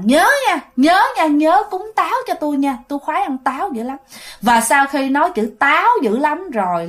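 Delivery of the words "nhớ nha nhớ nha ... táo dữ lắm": lightly voiced ghost girl, higher and insistent; a hint of a needy young ghost. Ghost girl reminding the family to offer apples, pitched up. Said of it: "còn nói rằng".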